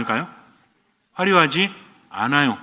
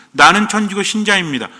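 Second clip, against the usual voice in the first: slightly raised, assured statement of faith; confident declaration; 3 semitones higher than usual. Shown as a demonstration. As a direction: declare it openly, without embarrassment. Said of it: "당당하게 긋는 거죠". (당당한 신앙 고백)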